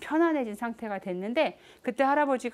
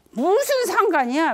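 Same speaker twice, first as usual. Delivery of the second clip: higher, louder snapped retort, stress on 무슨; angry retort; 9 semitones higher, 7 dB louder than usual. Retold or imitated. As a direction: fire back 무슨 상관이야 in anger. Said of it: "화를 내신 거예요".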